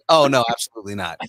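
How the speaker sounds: mock refusal, said loudly; quick sarcastic brush-off. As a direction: play at turning it down, sarcastically. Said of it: "the sarcasm in me would be like".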